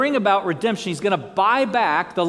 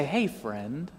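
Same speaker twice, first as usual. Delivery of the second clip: mock greeting; 5 semitones lower, 9 dB quieter than usual. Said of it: "just say".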